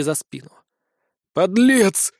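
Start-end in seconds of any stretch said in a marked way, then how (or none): 1.3-2.1 put-on old enemy's curse. A narrator's reading. Dying old man curses hero.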